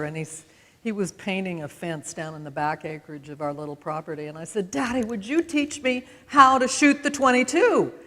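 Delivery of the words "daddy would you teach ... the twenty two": put-on child asking daddy. Girl asks father to teach her.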